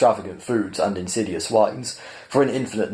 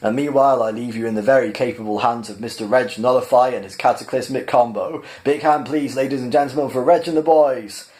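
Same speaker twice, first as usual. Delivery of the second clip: a higher, bright-toned host voice cheering on the crowd; showman compere calling out; 4 semitones higher than usual. Acted. Max announcing the band to the restaurant, hammed-up showman cry. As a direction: announce it like a cabaret host whipping up applause. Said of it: "cried Max".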